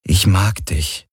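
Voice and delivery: slow, gentle reassurance with little force; calm and gentle. A narrator's reading. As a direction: say it calmly, drawing the words out. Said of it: "sagte er ruhig und sanft".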